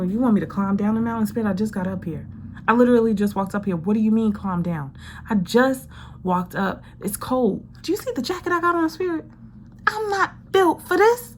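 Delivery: incredulous protest. Acted. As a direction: complain to Spirit like you just climbed up. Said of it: "and you go".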